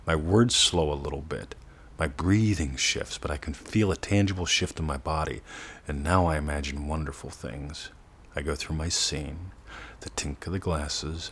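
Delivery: quiet, unhurried, dreamy; dropping into a relaxed state. Shown as a demonstration. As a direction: let the voice settle as if drifting toward sleep. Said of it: "you can hear the difference in my voice".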